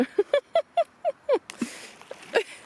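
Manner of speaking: squealing laugh; a high burst of giggles; high-pitched giggle. Real, not acted. Big laugh after joke.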